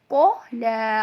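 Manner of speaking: "को ला" with a deep rounded q, then long "ला"; thick qaf. Shown as a demonstration. Teacher demonstrates qaf, "को ला" thick then drawn out. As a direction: round the first sound of "को ला" and hold the end. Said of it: "इसको मोटा पढ़ा जाता है".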